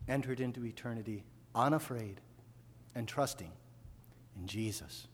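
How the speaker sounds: quiet reverent reprise; soft reflection. Acted. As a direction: let it settle quietly. Quiet repeat of earlier line.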